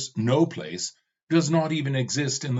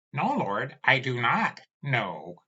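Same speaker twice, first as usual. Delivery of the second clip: pleading servant skull; 3 semitones higher than usual. Acted. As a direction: beg your master to stop. Skull answers timidly.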